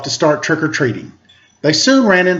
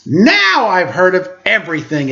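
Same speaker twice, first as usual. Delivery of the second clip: exclaiming. Acted. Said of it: "exclaimed Lucy".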